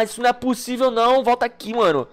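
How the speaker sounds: ordinary talk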